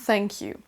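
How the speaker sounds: "thank you" begun with tongue at the teeth; careful TH at the start of "thank you"; correct English TH. Shown as a demonstration. Teacher confirms the right model, "thank you" with a true TH. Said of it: "la bonne prononciation de".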